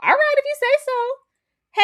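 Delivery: high, slow sarcastic drawl; way up and slow, mocking. Real, not acted. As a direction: stretch it out in disbelief. Sarcastic disbelief.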